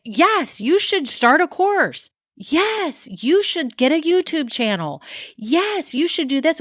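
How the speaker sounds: high, sing-song parody of the generic guru's every "yes"; mocking generic advice. Coach mocks generic online business advice, high sing-song parody. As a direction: lampoon the cookie-cutter advice with a chirpy high voice. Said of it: "solutions out there that are generic".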